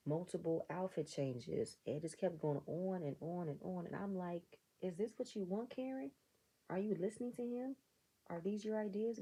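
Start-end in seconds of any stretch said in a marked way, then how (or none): 4.8-9.2 higher, disbelieving questions; incredulous questioning. Retold or imitated. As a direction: ask in open disbelief. Quizzing Karen in retold thought.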